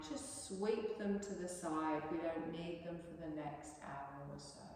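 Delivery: calm, even relaxation guidance; guided meditation. Acted. Yoga teacher leading breathing and self-massage, soothing guided voice.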